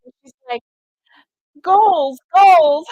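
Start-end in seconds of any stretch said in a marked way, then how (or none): 1.6-2.9 loud, high whoop of admiration; excited cheer. Retold or imitated. Woman admiring the crocheted jeans, excited cheer.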